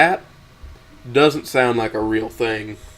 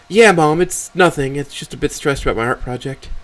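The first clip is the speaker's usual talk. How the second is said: higher-pitched daughter playing it down; dismissive daughter; 4 semitones higher than usual. Voices Amber reassuring her mother.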